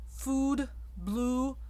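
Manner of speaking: food and blue with lips rounded, English style; blue with a lip-driven oo. Shown as a demonstration. Coach contrasting English oo for singers. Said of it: "English, oo".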